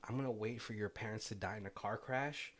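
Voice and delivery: put-on lightly done stereotypical French accent; a hint of a mock French voice, teasing. Retelling the scene to her co-host, in a light mock French accent. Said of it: "my super stereotypical French voice".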